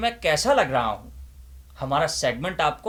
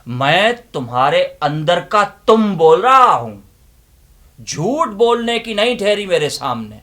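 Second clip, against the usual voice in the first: loud, impassioned recitation with long pauses; dramatic declamation; 8 dB louder than usual. Acted. Inner voice confronting the listeners with a loud, impassioned declamation. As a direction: preach it like a stage monologue.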